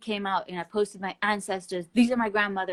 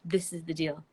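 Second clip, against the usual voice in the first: firm warning. Retold or imitated. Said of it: "and I just said".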